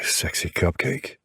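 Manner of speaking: slow, low rumbling greeting; low rumble. A narrator's reading. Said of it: "I greet her with a low rumble".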